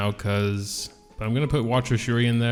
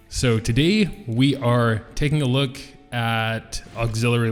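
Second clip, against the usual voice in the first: reverb. Real, not acted. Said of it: "sorry for the reverb".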